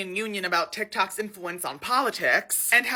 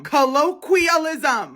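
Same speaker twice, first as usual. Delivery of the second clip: slow drawn-out; 5 semitones higher, 6 dB louder, much slower than usual. Shown as a demonstration.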